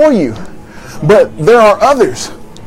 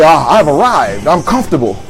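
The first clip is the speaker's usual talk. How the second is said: contented sigh; 5 semitones lower than usual. Retold or imitated. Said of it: "where you say".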